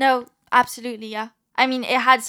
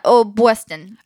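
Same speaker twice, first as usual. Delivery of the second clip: put-on Boston accent, a bit louder; 5 dB louder, slower than usual. Shown as a demonstration. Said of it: "Yeah, I'm from Boston".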